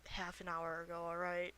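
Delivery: soft, hushed pleading; half-whispered. Acted. Player bargaining with a hidden character, half-whispering. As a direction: coax them quietly out of hiding. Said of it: "I'll kinda whisper".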